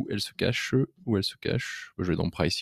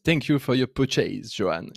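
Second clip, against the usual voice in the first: slow English line in a French speaker's accent; showy English accent; 2 semitones higher than usual. Real, not acted. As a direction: show off your English accent, drawing the words out. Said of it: "vous avez vu mon accent magnifique". (accent anglais appliqué, fièrement exhibé)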